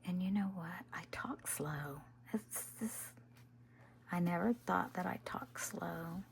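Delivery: slow, breathy whispered chat; ASMR whisper. Acted. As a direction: whisper it to the viewers as you craft. Whispered crafting vlog chat.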